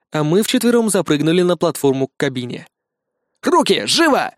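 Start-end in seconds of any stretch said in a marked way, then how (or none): 3.4-4.3 a cop barking hands up; barked order. A narrator's reading. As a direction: bark at the driver at gunpoint. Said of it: "рявкнул я".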